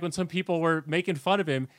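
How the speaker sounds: usual speaking voice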